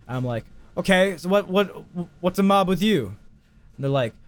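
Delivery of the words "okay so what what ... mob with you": a hint of raised-pitch Italian; lightly indignant Italian-accented retort; slipping into Italian accent. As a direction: challenge them with a touch of Italian accent. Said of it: "I start to slip into my own Italian accent".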